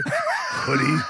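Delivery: 尖声大喊着猜; high shouted guess. Real, not acted. Teasing guess at outfit.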